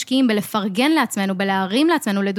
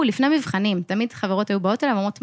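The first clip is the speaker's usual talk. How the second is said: ordinary talk, nothing marked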